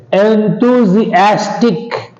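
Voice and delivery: "Enthusiastic" with the weight on AS; stress on second-last syllable. Shown as a demonstration. Teacher giving a rule example, "Enthusiastic" stressed on AS. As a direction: hit AS in "Enthusiastic". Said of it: "on the second syllable from the end".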